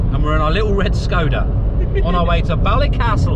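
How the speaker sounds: failed Northern Irish accent. Shown as a demonstration. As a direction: keep trying Northern Irish and still miss. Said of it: "No, still no good".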